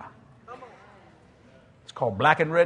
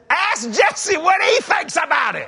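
audience call-out; 11 semitones higher, 5 dB louder, slower than usual. Retold or imitated. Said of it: "somebody in the audience said".

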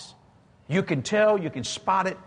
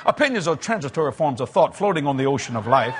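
sounding smart; 3 semitones lower than usual. Shown as a demonstration. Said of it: "sounded like Doctor Jesse Duplantis".

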